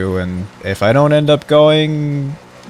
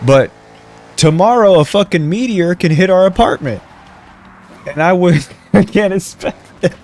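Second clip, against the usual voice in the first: laughing; 8 semitones higher, 5 dB louder than usual. Real, not acted. Laughing exaggerated excuse.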